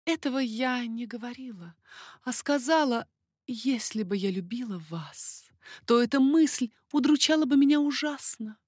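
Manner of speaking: high, lively lady's voice, teasing; coquettish baroness. Acted. Baroness teasing King Henri, high coquettish voice. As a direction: play the flirtatious court lady.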